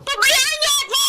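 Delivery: high, sharp yell to be left alone; angry shout. Acted. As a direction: push your mother away in anger. Connie yells at her mother. (galit na sigaw sa ina)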